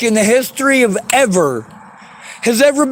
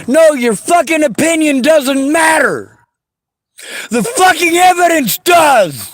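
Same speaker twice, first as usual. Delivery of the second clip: tearful angry shout. Real, not acted. Rejecting opinions, demanding evidence.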